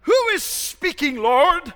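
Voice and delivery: high, loud startled question; frightened Saul. Acted. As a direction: cry up in alarm to the voice. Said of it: "Saul answers".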